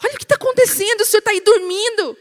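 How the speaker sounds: high, loud and fast, desperate alarm; panicked disciple. Retold or imitated. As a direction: cry out to wake the sleeping master in terror. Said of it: "e fala pra Jesus".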